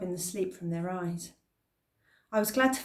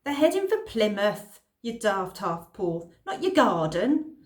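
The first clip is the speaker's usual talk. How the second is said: calling across; 5 dB louder than usual. Acted. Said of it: "called across the street".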